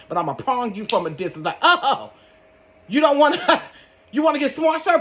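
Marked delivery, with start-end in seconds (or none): 1.6-5.0 much higher, louder teasing voice; hammed-up sing-song threat; mock sweet taunt. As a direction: taunt him sweetly before zapping.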